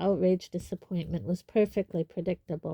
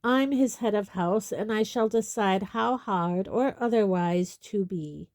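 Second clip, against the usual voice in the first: curt; 3 dB louder than usual. Acted. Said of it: "said Snape curtly".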